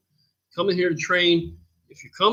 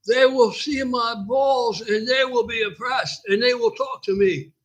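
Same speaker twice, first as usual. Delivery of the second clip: higher, slow insistent put-on voice; gym guy's voice; 6 semitones higher, slower than usual. Guy insisting to the gym owner, higher slow put-on voice. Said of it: "So I'm gonna do it".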